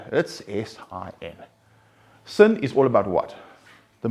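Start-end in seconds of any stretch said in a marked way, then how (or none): 0.1-1.4 "S I N" spelled slowly, letter by letter; "S I N" as three separate slow letters. Shown as a demonstration. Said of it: "if you spell the word sin".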